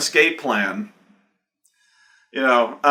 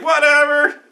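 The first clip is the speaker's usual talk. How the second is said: dismissive whatever; 12 semitones higher, 4 dB louder than usual. Retold or imitated. Teen GM shrugging it off.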